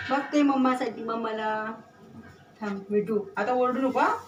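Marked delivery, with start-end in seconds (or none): 2.6-4.2 raised, higher scolding voice; scolding the parrot. Real, not acted.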